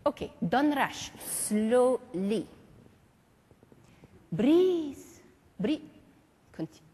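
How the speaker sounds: put-on lightly French-accented teacher; a hint of a stately French maestro; French mime master. Marceau calls students up in class, lightly French.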